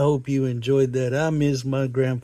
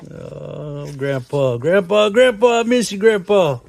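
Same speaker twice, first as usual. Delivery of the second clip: each Grandpa climbs higher and louder; calling for grandpa; 4 semitones higher, 4 dB louder than usual. Real, not acted. Building calls to grandpa.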